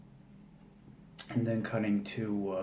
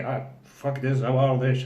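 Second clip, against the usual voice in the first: higher and much louder, half-laughing panic; panicked bail-out; 3 semitones higher, 9 dB louder than usual. Retold or imitated. Psychologist fleeing the Terminator, loud panicked half-laugh. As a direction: yelp it like a coward fleeing. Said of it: "he's like".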